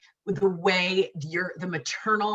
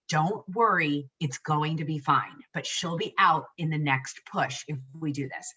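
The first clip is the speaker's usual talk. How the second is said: gently reassuring; 4 semitones lower than usual. Retold or imitated. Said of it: "in her sweet little nice way".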